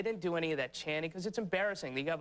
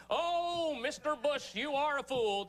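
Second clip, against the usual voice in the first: mock folk singer; 10 semitones higher, slower than usual. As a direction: croon it like a naive hippie protester. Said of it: "little kids with banjos going".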